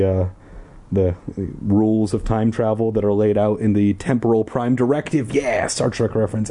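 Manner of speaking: quick, wry commentary; sarcastic aside. Real, not acted. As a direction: poke fun at the plot. Reader's aside joking about plot.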